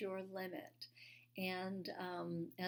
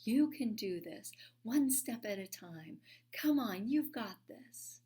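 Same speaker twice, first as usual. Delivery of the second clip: louder, calling up encouragement; cheering crowd; 3 semitones higher, 5 dB louder than usual. Retold or imitated. People at the bottom of the wall cheering her on loudly. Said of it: "they're cheering me on".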